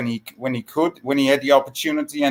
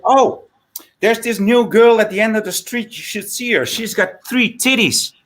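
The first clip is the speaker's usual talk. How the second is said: pitched up, teasing tip; a higher coy voice for the hooker; 7 semitones higher, 3 dB louder than usual. Retold or imitated. Hooker tempts her client with the new girl, higher coy voice. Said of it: "And then she said".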